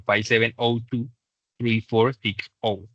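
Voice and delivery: very slow, separated digits. Shown as a demonstration. Teacher modelling the phone number's end, digit by digit. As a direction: finish the number slowly, digit after digit. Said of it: "es mejor decirlos uno por uno".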